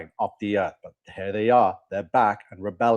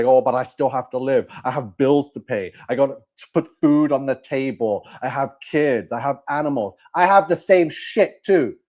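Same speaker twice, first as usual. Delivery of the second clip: imitating pleading excuses, building louder and higher; mock protesting; 3 semitones higher, 4 dB louder than usual. Preacher mimicking viewers' excuses for chasing the system, mock protesting. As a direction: voice an exasperated objection, heating up as it goes. Voicing viewers' money objections.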